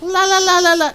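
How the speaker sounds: a smaller, half-hearted la la la ululation; second Xena yell try. Shown as a demonstration. Streamer's second try at the yell, half-hearted ululation. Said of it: "Nope, nope, doesn't work".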